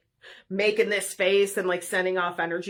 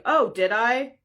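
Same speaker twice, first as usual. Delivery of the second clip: deadpan retort; 4 semitones higher, 4 dB louder, slower than usual. Retold or imitated. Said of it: "I just straight faced".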